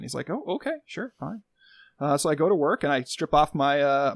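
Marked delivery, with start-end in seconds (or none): 0.3-1.4 dismissive. Retold or imitated. Dismissive quoted man.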